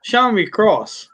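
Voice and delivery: nun's line. Acted. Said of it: "one of 'em says to the other one".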